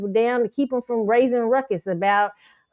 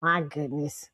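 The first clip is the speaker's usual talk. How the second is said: mocking quote; 5 semitones lower, 7 dB quieter than usual. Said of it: "I said".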